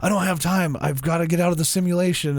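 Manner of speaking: retold panic, lightly acted; panicking. AI characters desperate to escape the simulation, mock panicking. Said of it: "they start panicking".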